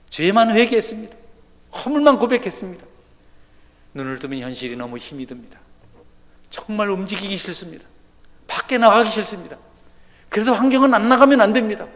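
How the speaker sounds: preacher rising to a loud peak; preaching at full force. Acted. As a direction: drive the point home from the pulpit.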